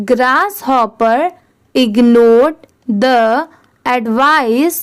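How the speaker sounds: very slow, word by word read-aloud with long pauses; slow story reading. Acted. Teacher reading the story to students, slow dictation. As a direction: read each phrase slowly for the class to repeat. Teacher reads paragraph for repeating.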